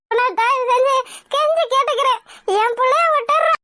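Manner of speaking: put-on sobbing, begging for her child; mother sobbing to the goon to spare her daughter; crying plea. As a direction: plead through tears, voice breaking.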